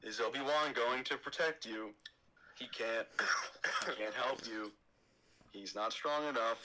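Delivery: slow, a hint of brooding Anakin; lightly voiced Anakin, suspicious; slow understated Anakin. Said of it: "my Anakin is pretty sick".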